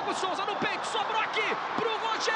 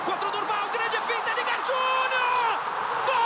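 building to a roaring goal call; explosive goal commentary; 4 semitones higher than usual. Real, not acted.

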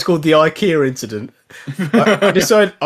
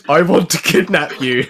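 put-on Russian accent; 2 semitones higher than usual. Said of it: "you do the Russian accent on purpose".

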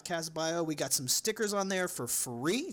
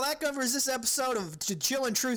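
higher, hammed-up Louisiana accent outro; mock Louisiana accent; 8 semitones higher, 4 dB louder than usual. Host signs off the podcast in a put-on Louisiana accent. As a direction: sign off in a joking Louisiana accent. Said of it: "The accent or the ending?".

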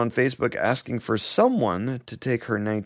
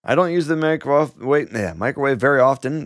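reading a quote; 3 semitones higher, 4 dB louder than usual. Retold or imitated. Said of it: "Denise said".

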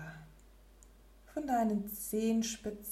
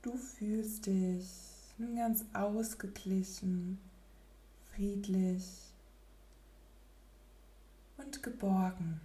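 soft spa whisper; 5 dB quieter than usual. Acted. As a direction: whisper calmly, barely there. Settling into stillness, meditation.

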